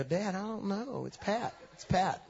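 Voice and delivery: hushed, low tattling to Dad; tattling sister. Retold or imitated. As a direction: sister quietly snitching on Pat to Dad, hushed and sly. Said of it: "she just look at Dad and go".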